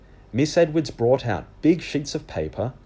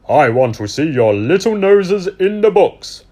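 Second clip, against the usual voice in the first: higher, louder fussy librarian; 8 semitones higher, 10 dB louder than usual. Acted. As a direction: address the kids like a cheerful librarian. Librarian addresses students.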